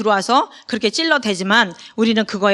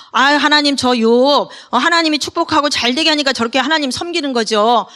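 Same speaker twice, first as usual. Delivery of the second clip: mock accusing Satan; 3 semitones higher than usual. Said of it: "막 그렇게 참소를 하잖아요".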